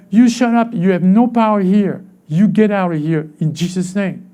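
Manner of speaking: a preacher casting out the enemy; rebuking Satan. Shown as a demonstration. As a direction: order the devil out with authority. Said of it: "This is how you speak to him".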